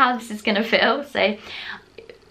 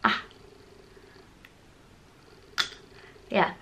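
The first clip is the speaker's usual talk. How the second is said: pulling out dental aligner; straining with hands in mouth; fingers in mouth; 4 semitones lower, 10 dB quieter than usual. Real, not acted. Seen 1: both hands' fingers inside mouth prying out clear tray, out at 3.4.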